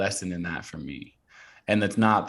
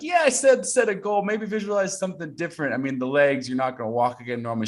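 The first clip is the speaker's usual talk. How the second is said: high-pitched imagined mom, easing down gradually; doubting mom; 7 semitones higher than usual. Retold or imitated. Mom lowering injured son's hopes, high and doubting. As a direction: imitate a mother talking him out of it.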